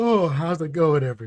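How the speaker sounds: drowsy, tired-sounding voice. Co-host greeting listeners right after being introduced on the podcast, sleepy voice. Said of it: "You sound sleepy".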